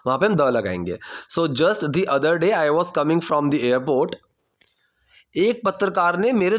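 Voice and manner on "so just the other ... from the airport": slow model sentence. Shown as a demonstration. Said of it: "teacher models the sentence".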